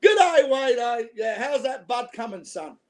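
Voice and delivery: thick home-style Aussie greeting; broad Aussie accent. Shown as a demonstration. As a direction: lay on the Australian accent. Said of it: "This is how I talk when I go home".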